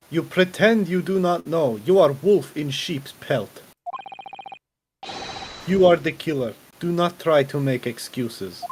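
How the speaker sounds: hammed-up fake Russian accent; a bad Russian villain voice, mock menacing; amateur Russian accent, playing a gruff interrogator; shitty Russian accent. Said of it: "try hand at a shitty Russian accent".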